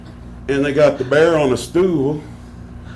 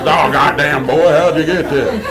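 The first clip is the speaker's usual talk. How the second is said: exclaiming in mock amazement; imitated astonished doctor; 3 dB louder than usual. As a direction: blurt it out like the stunned doctor. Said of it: "And he goes".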